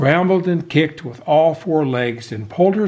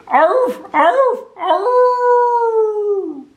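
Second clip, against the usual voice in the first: high, loud barks ringing out; a cry booming across the market; barks over speakers; 5 dB louder, much slower than usual. A narrator's reading. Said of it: "her cry rang out on the speakers".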